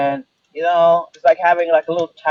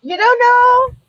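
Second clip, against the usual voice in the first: Gypsy impression; slower than usual. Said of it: "do the best Gypsy impression".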